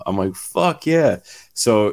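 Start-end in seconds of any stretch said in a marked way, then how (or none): 0.3-1.2 higher-pitched retold celebration; a quick burst of triumph. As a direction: relive landing the deal. Retelling his joy at the deal.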